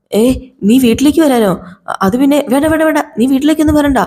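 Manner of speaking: panicky, scrambling to keep him away; flustered refusal. Acted. Antony on the phone, panicking, telling Sarath not to come.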